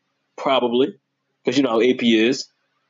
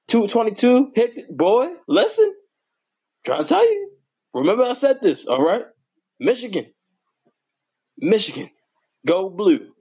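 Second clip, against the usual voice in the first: excited squeal; 8 semitones higher than usual. Real, not acted. Hyping Michigan players to viewers, very high excited voice. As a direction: squeal it out like a hyped fan.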